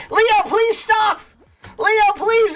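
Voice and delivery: high pleading through laughter; laughing plea. Retold or imitated. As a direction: beg him to stop while cracking up. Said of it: "I was like".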